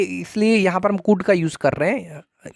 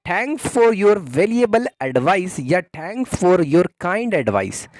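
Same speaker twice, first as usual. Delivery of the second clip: 1 slow model phrase; much slower than usual. Shown as a demonstration. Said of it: "धन्यवाद".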